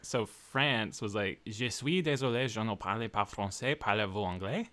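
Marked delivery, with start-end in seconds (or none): 1.4-4.7 rehearsed tourist French; traveler's careful attempt at a French accent; French phrasebook line in a French accent; imitating a French accent. Shown as a demonstration. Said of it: "trying to say them how they would sound".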